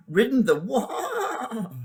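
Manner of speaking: high, slow whinnying neigh; horsey neigh. A narrator's reading. Scornful horse neighing at the boy's donkey talk. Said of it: "it came out in a sort of neigh".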